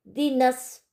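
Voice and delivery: दीनस said slowly with the नून joined straight into स; joined to next letter. Shown as a demonstration. Teacher shows linking नून for students, slow. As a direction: link दीनस as one unit, drawn out. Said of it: "नून जो है वो आने वाले हर्फ से मिलाया जाएगा".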